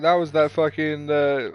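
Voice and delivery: lightly mimicked English accent; imitated English lady. Quoting the game's lady to the co-player, in a mock English accent. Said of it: "Like that lady when she was like".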